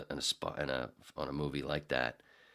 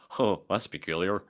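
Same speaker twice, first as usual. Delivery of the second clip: stiff, prim white-guy voice, louder; Eddie Murphy white voice; 2 semitones higher, 6 dB louder than usual. Retold or imitated. Demoing the Eddie Murphy white-guy voice. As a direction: sound like a prissy white guy. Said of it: "the Eddie Murphy doing the white voice".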